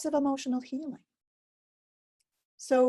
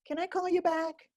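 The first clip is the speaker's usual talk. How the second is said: kind, higher-pitched request to a friend; kindly; 7 semitones higher than usual. Acted. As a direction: ask lightly and gently to step away, pitched up. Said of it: "you say kindly to your friend".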